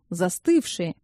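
ordinary delivery, nothing marked

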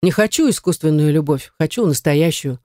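ordinary delivery

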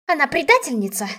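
aunt shrieking accusations at the heroine; angry shrill voice. A narrator's reading. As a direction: spit the accusation out. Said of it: "злой визгливый голос".

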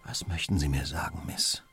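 low, half-whispered prompt; gentle bedside question. Acted. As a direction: coax a weak patient to speak. Holmes fragt die Sterbende behutsam.

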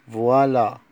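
voilà said clearly, vwa-LA; teacher's model word. Shown as a demonstration. Teacher models voilà for pupils, clear and loud. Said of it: "رقم اتنين".

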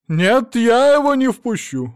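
high, loud, slow stubborn refusal; loud obstinate no. Acted. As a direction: dig in your heels, shrieking. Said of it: "заупрямилась Роза Марципановна".

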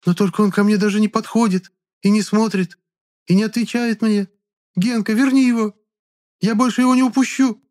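trembling plea. A narrator's reading. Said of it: "Губы у Клары задрожали".

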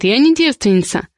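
usual speaking voice

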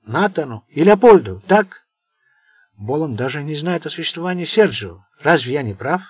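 put-on loud, commanding old don; stern old mafia boss. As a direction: lecture them like a scornful boss. Sergio's speech to mafiosi.

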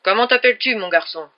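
loud, high, through a megaphone; over a loudspeaker. A narrator's reading. Sheriff to the hostage taker, over a loudspeaker. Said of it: "amplifiée par un haut-parleur".

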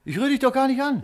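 laughing taunt. Acted. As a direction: laugh it off mockingly.

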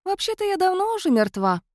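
cat spirit calmly stating she is dead. A narrator's reading. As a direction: say it as a matter of fact. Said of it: "спокойным тоном".

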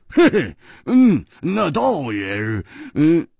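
high, loud sheepish chuckle; chuckling. Acted. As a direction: laugh it off awkwardly. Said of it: "胡铁花笑着说". (胡铁花讪笑着说)

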